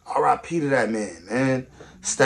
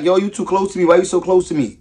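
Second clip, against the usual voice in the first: imitating annoyed woman; 6 semitones higher, 6 dB louder than usual. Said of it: "a chick be like".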